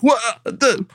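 "Highlander" jumping way up; incredulous double take; mock shock at the casting; retold disbelief. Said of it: "And I'm like".

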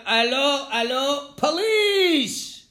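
loud, high cry for the police; acted scream to flag down police; scream for help. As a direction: call out urgently, pitch leaping on the last word. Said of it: "And he screams out".

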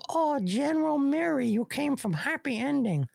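put-on high-pitched caricatured Asian accent. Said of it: "Asian accent comes".

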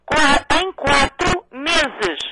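slow, deliberate syllables; over enunciating. Real, not acted. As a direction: stretch every syllable out. Repete para quem não ouve. (articulando cada sílaba devagar)

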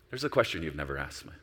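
low, soft and tender; soft tender voice of God; sweetly. Retold or imitated. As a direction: speak gently like a loving father. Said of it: "so sweetly".

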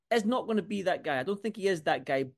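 ordinary talk

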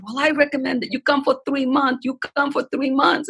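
high-pitched, lightly imitated Asian accent; attempted Asian accent. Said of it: "in her accent, which I could not replicate".

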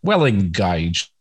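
put-on a slow, lightly done Cockney accent; a self-mocking, clumsy Cockney accent; lame Cockney accent. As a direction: drawl it out in a half-hearted Cockney accent.

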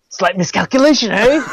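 lightly voiced Bond quip ending in eh; a hint of Brosnan, tagging on eh. Co-host mocking Bond's lines with a Canadian eh. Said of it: "ended every line after this with an A".

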